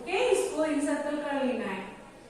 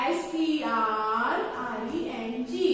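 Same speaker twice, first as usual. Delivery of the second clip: slow spelling; 3 semitones lower, slower than usual. Shown as a demonstration. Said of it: "तो string".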